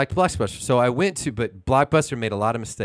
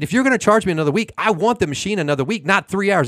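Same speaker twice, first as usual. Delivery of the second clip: higher-pitched, indignant retelling; retold upset demand; 5 semitones higher than usual. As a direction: argue it like re-living the dispute. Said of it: "that's how upset I was".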